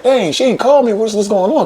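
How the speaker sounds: high-pitched puzzled wondering; retold bewilderment. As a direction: act out being baffled by the missing call. Retelling his puzzled wait for a call.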